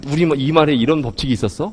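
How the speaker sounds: 높은 음으로 놀라 되묻는 흉내; 처음 안 사실에 놀란 사람을 흉내 내듯. Retold or imitated. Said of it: "와, 깜짝 놀란 거예요". (살짝 과장해서 놀란 척)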